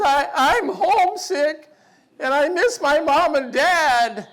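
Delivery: a put-on teary child, lightly hammed; imitating a homesick girl. Little girl tells the host dad she's homesick, mock teary. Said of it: "comes to me in tears".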